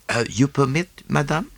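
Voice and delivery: a gentle, polite Poirot request. A narrator's reading. Poirot asks the wife for the necklace, gently. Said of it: "said Poirot gently".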